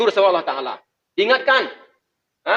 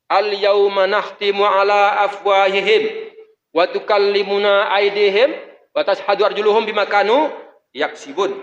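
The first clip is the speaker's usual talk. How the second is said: Quran recitation; slower than usual. Acted. Quoting a Quran verse.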